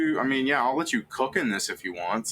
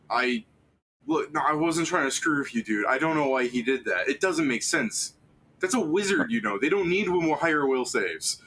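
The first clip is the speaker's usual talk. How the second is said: apologetic wizard voice; 5 semitones higher than usual. Acted. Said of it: "is just like".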